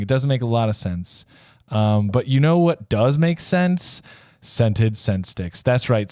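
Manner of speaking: hammed-up commercial pitch with slowed product name; mock ad read. Host pitching scent sticks as a joke sponsor, mock ad read. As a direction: sell it like a cheesy infomercial.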